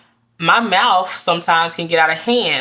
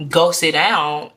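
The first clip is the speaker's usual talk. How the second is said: stern command; slower than usual. Shown as a demonstration. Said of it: "and I say it like this".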